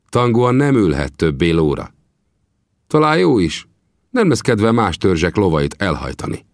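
Vinetú sternly calling the Kiowa chief to order; firm, commanding chieftain; stern rebuke. Acted.

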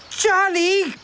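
high, scolding cry of a name; high-pitched storybook reproach; indignant. A narrator's reading. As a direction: cry out in outrage at the prankster. Friends angry at the prank.

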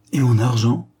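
loud, demanding shout for his money; crying out. Acted. Angry son shouts at his brother for his money, loud. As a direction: bark the question at the thief brother. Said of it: "criait-il".

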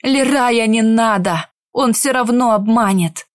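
shouted warning. Acted. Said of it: "крикнул Каур".

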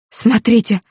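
high, loud, exultant call; triumphant cry. Acted. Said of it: "закричала она торжествующе". (торжествующий возглас, высоко и громко)

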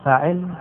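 "فاعل" as fa'il, i after the ayn; "فاعل" in two syllables, fa-'il; first variant, fa'il. Shown as a demonstration. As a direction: say "فاعل" with fatha then kasra. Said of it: "يجوز فيه ثلاث لغات".

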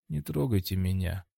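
soft, weary plea; tired voice. A narrator's reading. Fighter on the floor asks to be left alone, tired voice. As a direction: say it softly, worn out. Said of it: "усталым голосом".

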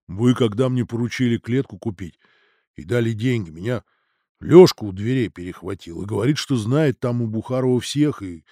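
a hint of a deep bass; deep-voiced manager explaining himself. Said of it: "Голос у него оказался басовитым".

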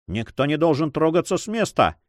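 ordinary delivery, nothing marked

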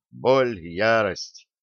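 usual speaking voice

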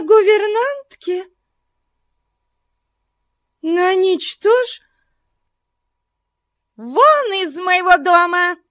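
very high furious shriek; hysterical shouting. A narrator's reading. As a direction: scream it, beside herself. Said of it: "истерически выкрикивала". (истерически выкрикивая)

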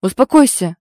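loud, sharp order to calm down; growled command. Acted. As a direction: bark it to stop her hitting. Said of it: "рыкнул на неё".

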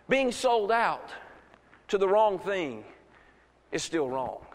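measured, spaced phrases. Real, not acted. First take, spaced for listeners.

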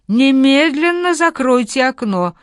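high, loud, slow indignant order; old woman outraged, hammering every word; furious command to shut the window; indignant outburst. A narrator's reading. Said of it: "возмутилась старуха".

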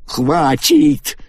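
high piercing cry of Хватит; shrill outcry. A narrator's reading. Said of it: "пронзительно вскричала она". (Агата пронзительно кричит на Вана)

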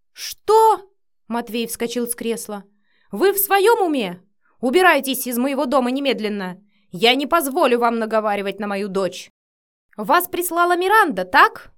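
разъярённый крик; furious shout. A narrator's reading. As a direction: throw her out of the house. Father explodes at nanny.

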